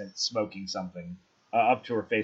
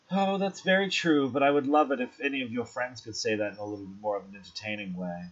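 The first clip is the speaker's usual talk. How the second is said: teasing hostess; faster than usual. Acted. Rosé asking the guests to entertain her, lightly teasing.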